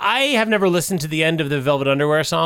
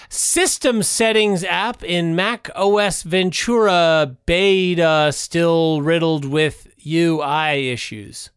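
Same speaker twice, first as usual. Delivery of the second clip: headline read-out; 2 semitones lower, much slower than usual. Real, not acted. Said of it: "It says".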